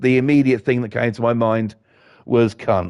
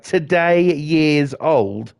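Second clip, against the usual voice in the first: slow, drawn-out mocking echo; mocking disbelief; 2 semitones higher, much slower than usual. Ranting at the meme, slow and incredulous. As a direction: drag the phrase out in disbelief. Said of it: "And I'm like".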